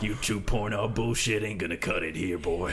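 put-on old prospector. S2 plays grizzled old web developer.

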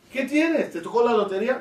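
high-pitched, animated mock astonishment; astonished questioning. Onlooker questions a man happy on Shabbat, acted astonishment. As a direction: play an amazed onlooker quizzing someone. Acting out someone puzzled by joy.

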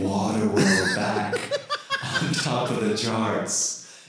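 ghost voice. Acted. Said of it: "kind of like a ghostly voice".

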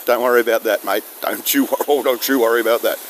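a light touch of broad Aussie; easygoing pub Aussie, lightly done; Aussie bloke voice. Shown as a demonstration. At the pub watching footy, light Aussie bloke voice. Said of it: "then I'll slip into that".

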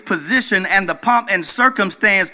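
loud, rhythmic sermon climb; full-force preaching. Acted. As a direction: preach it out to the congregation.

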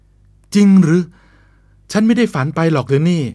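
can't believe his luck; amazed disbelief. Acted. Lover hears she will stay.

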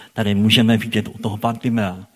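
ordinary talk

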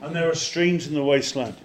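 loud, declarative verse reading; forceful scripture proclamation. Real, not acted. Preacher finishes the desert promise to the church, loud proclamation. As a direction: declare the verse firmly and loudly.

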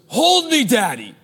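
put-on a tired child begging to be picked up; demanding toddler. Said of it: "He goes".

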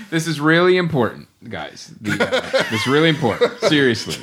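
a hint of a stern dad. Real, not acted. Host reining in his guests mid-ad, dad voice. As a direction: lightly scold them like a dad. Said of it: "You put on your dad voice".

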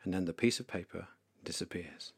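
whispered narration of the vanishing. A narrator's reading. Leader whispers as the sin paper vanishes. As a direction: breathe it out as a whisper.

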